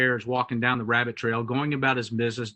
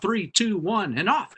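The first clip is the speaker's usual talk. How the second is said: higher, measured race-start count; called-out countdown; 5 semitones higher than usual. Acted. Field mouse starting the race with the hare, calling out. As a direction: call the start of a race, lightly acted. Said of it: "the field mouse calls out".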